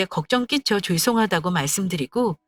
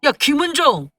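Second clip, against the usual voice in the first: acted angry accusation, pitched up; angry boyfriend; 5 semitones higher than usual. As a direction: lash out like a boyfriend who feels cheated. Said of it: "이제는 화를 내더라고요".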